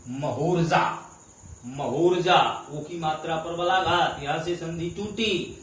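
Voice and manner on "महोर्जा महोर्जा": slow, syllable by syllable; slow drawn-out syllables. Shown as a demonstration. Teacher slowly sounding out a joined word. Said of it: "तो देखिए".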